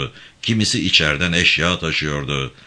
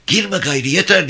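high, loud pleading yell; desperate shout; 11 semitones higher, 4 dB louder than usual. Acted. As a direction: cry out to stop her going back in. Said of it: "diye bağırdı". (yüksek, çaresiz bir bağırış)

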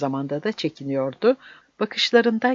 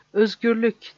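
higher-pitched feeble plea; narrated murmured plea, pitched up; thin, pleading voice; 6 semitones higher than usual. A narrator's reading. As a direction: beg for it like a frail old man. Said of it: "yalvaran cılız sesiyle".

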